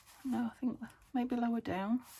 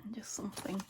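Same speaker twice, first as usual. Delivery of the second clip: talking through hiccups; hiccuping between words; 4 dB quieter than usual. Real, not acted. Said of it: "hiccuping again".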